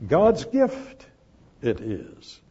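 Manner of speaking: "God's" jumps high and ringing; "God's" sung out high above the rest; stress on God's. Shown as a demonstration. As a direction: lift "God's gift" up hard, then let "it is" drop. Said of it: "Emphasis on theou".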